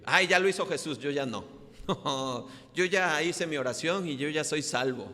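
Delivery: high, loud smug whine; mock complacent believer. Preacher mocking a complacent churchgoer, high and smug. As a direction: play the lazy Christian who thinks he is done.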